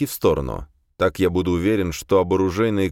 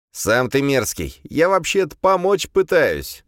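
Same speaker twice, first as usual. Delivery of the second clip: slow, high, offended demon voice; the demon takes offence and protests; возмущённый демон; 9 semitones higher, slower than usual. A narrator's reading. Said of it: "возмутился Легион". (возмущённо, высоким голосом)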